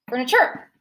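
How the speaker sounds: FURNITURE with the weight on CHUR; stress on last syllable. Shown as a demonstration. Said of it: "The first one".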